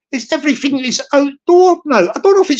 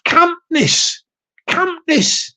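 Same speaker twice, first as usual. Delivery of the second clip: camp tone; 6 semitones higher, much slower than usual. Shown as a demonstration. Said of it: "borders on a bit of".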